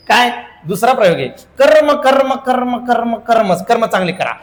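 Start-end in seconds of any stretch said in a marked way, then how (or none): 1.3-4.3 mock preacher. Mock sermon on karma.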